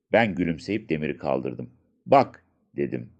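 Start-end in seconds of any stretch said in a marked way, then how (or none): 2.0-2.4 high, loud and eager; the boy loudly shows his friend the shiny comb; excited. Acted. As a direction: call him over, thrilled by the find.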